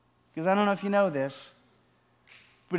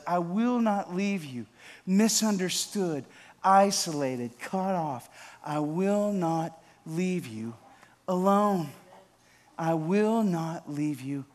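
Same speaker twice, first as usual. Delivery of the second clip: slow, measured promise, each line weighed; solemn, unhurried pulpit cadence; slow preaching refrain; slower than usual. Acted. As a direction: let every repeat land slowly.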